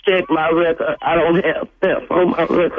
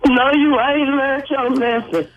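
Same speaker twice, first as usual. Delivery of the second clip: scolding; 6 semitones higher than usual. Real, not acted. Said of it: "that's not strong".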